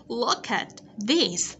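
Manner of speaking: "Look at", short pause, "this"; careful teacher model of "Look at this"; ending sounds kept. Shown as a demonstration. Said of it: "đừng quên cái ending sound t".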